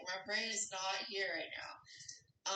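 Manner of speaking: slow whisper, brain not there; whispered spaced-out. Retold or imitated. Spacey whisper explaining her foggy mornings to the host. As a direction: breathe it out slowly, absent. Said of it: "Yeah, like".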